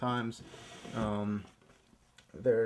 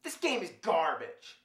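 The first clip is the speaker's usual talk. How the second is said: raging gamer; 5 semitones higher, 3 dB quieter than usual. Acted. Gamer rant in cartoon voice.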